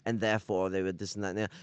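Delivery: rushed, fast, dismissive parroting; hurried mock lecture, lightly voiced; mock communist rant. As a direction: gabble it off like a rote excuse. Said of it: "they'll be like".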